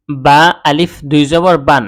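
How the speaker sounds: slow spelling, each letter named; teacher spelling the syllable before reading it; spelled out. Shown as a demonstration. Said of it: "দুই জবর এভাবে বানান করে".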